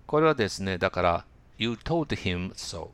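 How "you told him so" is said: slow, every sound of "him" spelled out with a clear h; "You told him so" said word by word, "him" with full h; careful unreduced English. Shown as a demonstration. Teacher showing students the wrong stiff way, slow and careful. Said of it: "こういうには発音しないです".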